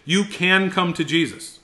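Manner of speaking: indicative statement. Shown as a demonstration. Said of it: "Right, so indicative".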